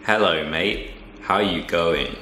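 low, attempted Aussie greeting; imitated Australian accent. Learner repeating the teacher's greeting, imitated Australian accent. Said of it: "No, that's not good".

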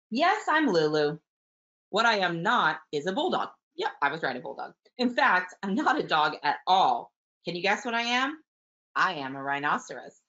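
a hint of a proud storybook character; lightly voiced storybook dog. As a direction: lightly play Lulu introducing herself to young listeners. Reads Lulu's lines aloud.

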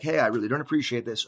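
composed, quick, even objection; calmer tone. Acted. Person answering the condemning caller again later, in calmer tone. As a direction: politely set a boundary without heat. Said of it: "in a calmer tone".

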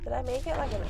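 ordinary talk, nothing marked

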